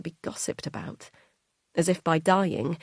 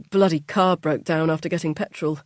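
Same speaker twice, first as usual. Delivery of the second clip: louder, fed-up complaint; irritated grumble; 6 dB louder than usual. Acted. Husband complains about the broken-down car, irritated.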